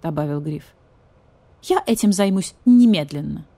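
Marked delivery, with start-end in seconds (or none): 1.6-3.5 brisk official vulture voice; stern vulture. Acted. Vulture officer answers cat firmly, official voice.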